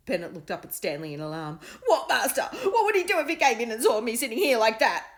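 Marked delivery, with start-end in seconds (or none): 1.9-5.1 high, loud, panicky dog voice; worried pet; alarmed dog. A narrator's reading. Dog asking master in alarm, panicky.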